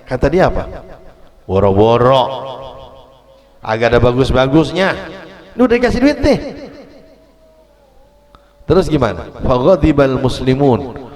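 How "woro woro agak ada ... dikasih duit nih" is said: dismissive Bedouin voice, pitch swinging wide; ungrateful Bedouin. Acted. Preacher voicing the Bedouin who scorns the Prophet's gift. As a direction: brush off the gift with a scoff.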